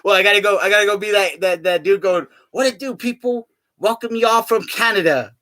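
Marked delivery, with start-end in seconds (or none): 2.5-5.3 high hyped welcome; hyped host voice. Retold or imitated. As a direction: hype up the crowd. Imitating a Mexico tour guy.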